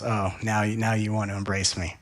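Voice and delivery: put-on low, soft, unimpressed child; cool, sarcastic indifference; disinterested. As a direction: toss it off quietly, low and uninterested. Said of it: "disinterested because it goes".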